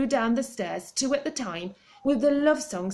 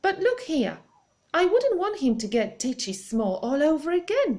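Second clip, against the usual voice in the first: worried lady; 8 semitones higher, 4 dB louder than usual. Acted. Mrs Silver anxious about Alfie.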